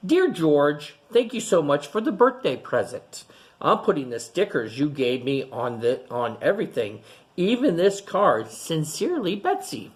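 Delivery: a hint of a cheerful neighbor reading her note; lightly voiced Betsy. Teacher voicing neighbor's thank-you letter, lightly bright. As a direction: read the letter with a light lift. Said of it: "And it said".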